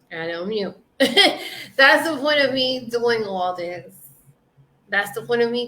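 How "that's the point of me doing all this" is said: laughing through the words. Real, not acted. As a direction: say it with a real laugh breaking in. Laughing, then repeating it.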